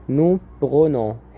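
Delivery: nous prenons drawn out very slowly, each syllable clear; teacher to class, stretching out nous prenons slowly; slow teaching model. Shown as a demonstration. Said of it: "هنا مفيش بقى حرف ال d".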